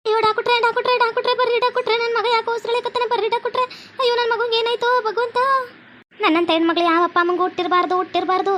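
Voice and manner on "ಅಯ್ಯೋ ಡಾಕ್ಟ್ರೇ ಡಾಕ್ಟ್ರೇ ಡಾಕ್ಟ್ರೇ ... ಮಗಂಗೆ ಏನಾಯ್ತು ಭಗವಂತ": frantic call for help. Acted. Calling doctor for dying son.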